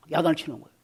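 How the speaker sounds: ordinary talk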